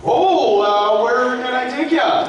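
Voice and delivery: high, loud mock Indian accent; bad Indian accent. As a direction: mimic someone badly attempting an Indian accent.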